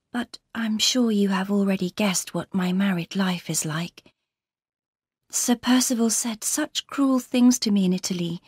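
lightly voiced troubled young wife; confiding Laura. Laura confides in Marion about her marriage, troubled and confiding.

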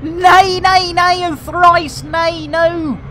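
loud, high hammed-up refusal; comic over-the-top objection; mock outrage. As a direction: protest theatrically, nay nay and thrice nay. Mock refusal of fast method.

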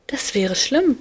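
put-on high, loud, boastful child's voice; cheeky little boy. A narrator's reading. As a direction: brag like a mischievous little cupid. Amor voiced by narrator. (hohe, laute, prahlerische Kinderstimme)

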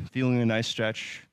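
breathless from holding the pose; out of breath. Real, not acted. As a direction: catch your breath between words. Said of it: "you just heard me kind of catch my breath".

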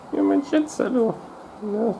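high cooing pet voice. Real, not acted. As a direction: coo up high at the kitty. Cooing to the cat.

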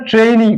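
ট্রেনই said "treyin-i"; an i glide after the e in ট্রেনই; correct "trein" glide. Shown as a demonstration. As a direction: stretch the vowel of ট্রেনই from e to i. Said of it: "উচ্চারণটা ট্রেনই করে".

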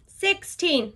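breathy whispered count. Shown as a demonstration. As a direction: whisper it while squatting. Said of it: "I'm gonna use a whisper voice".

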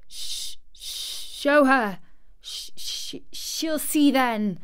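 stuttering, sobbing outburst; breath-starved tearful child; gasping between sobs. A narrator's reading. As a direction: catch on the first sound, then burst it out. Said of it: "gasped out between two sobs".

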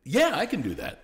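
high, loud laugh through the words; laughing yes. Real, not acted. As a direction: laugh it out in disbelief. Agreeing to impossible request.

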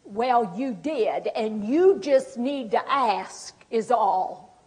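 slow, drawn-out aggrieved reply; still angry. Acted. Acting offended person answering a caregiver's apology, still angry. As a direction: stretch the words in acted annoyance. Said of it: "'Cause I'm still angry".

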